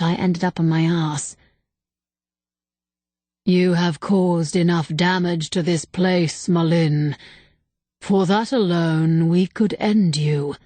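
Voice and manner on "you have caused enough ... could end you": slow, calm and collected; calm, regretful. Acted. Ancient temple remnant passing judgment on Malin, slow and calm. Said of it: "His tone was calm, collected, but filled with a sense of regret".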